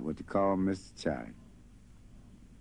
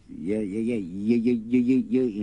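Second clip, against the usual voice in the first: urgent; 3 dB louder than usual. Acted. Boy urgently pointing at the fire.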